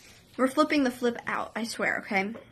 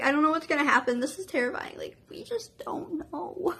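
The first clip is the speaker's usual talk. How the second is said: scared, near tears; 4 semitones higher than usual. Retold or imitated. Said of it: "trying not to cry".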